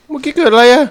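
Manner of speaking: high, loud bewildered cry; shocked high question. Real, not acted. Gamer stunned by a sudden event, crying out in disbelief. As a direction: demand to know what just happened, alarmed. Confused after game event.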